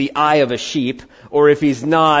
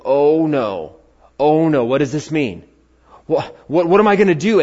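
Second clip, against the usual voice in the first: initial alarm. Acted. Preacher acts our first response to troubling news, mildly panicked. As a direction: act out a rising fluster. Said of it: "that initial".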